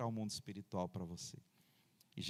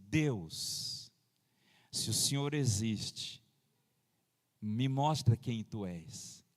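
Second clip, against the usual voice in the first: wife's simple prayer; 2 semitones lower, much slower than usual. Retold or imitated. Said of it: "ela simplesmente fechou os olhos e falou assim".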